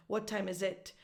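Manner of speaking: "What time is it" landing on final "it"; Italian learner's tune, weight on "it"; Italian-sounding stress. Shown as a demonstration. Teacher mimics Italian learners, stress on IT. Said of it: "It sounds very, very Italian".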